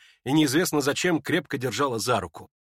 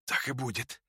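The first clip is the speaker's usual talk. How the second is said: quiet hoarse near-whisper; 9 dB quieter than usual. Acted. Dying Ippolit answers Lizaveta, faint hoarse near-whisper. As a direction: barely breathe the words out. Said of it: "тихо, хрипло и чуть не шёпотом".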